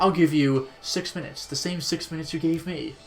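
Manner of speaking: slow, menacing movie villain; drawn-out villain threat; GoldenEye villain quote. Retold or imitated. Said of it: "like, GoldenEye".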